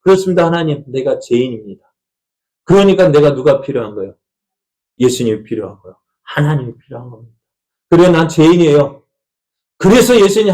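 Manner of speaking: mild acted prayer of admission; humble confession prayer. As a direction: confess to God, then lift up with hope. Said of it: "하나님 앞에 솔직하게 인정하십시오".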